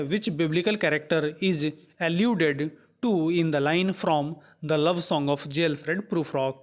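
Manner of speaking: reads the English question out word by word, very slowly; slow question reading. Acted. Teacher reading the quiz question aloud to students, slow and deliberate. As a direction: dictate it slowly so students can follow.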